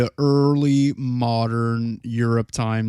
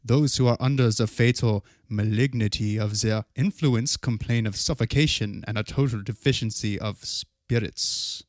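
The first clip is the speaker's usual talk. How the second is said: lightly voiced German scholar, hushed; German scientist voice; 2 semitones lower, 4 dB quieter than usual. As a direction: read it like an old German scholar. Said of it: "your German scientist voice".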